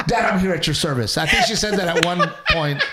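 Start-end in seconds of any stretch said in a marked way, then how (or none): 0.1-1.2 mock eager daughter. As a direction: mimic the wife jumping to answer her dad. Husband mocks wife answering dad.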